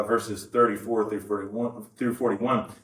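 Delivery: ordinary talk, nothing marked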